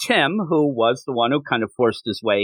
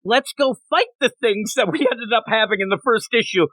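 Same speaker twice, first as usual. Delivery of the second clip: cheesy flattered reply; 5 semitones higher than usual. Retold or imitated. Acted Robin reply, high.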